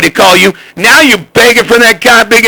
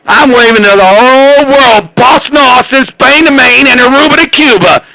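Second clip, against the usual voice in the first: boastful brag; 5 semitones higher than usual. Real, not acted. Bragging on the CB radio.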